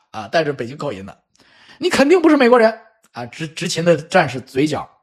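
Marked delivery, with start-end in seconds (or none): 1.8-3.2 scoffing guard. Retold or imitated. Guard mocks her claim.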